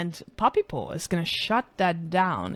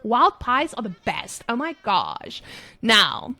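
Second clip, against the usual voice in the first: put-on American Starbucks girl. Streamer casting the game as a peppy Starbucks girl. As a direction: gush like a peppy coffee-shop girl. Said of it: "we're switching to the American Starbucks girl".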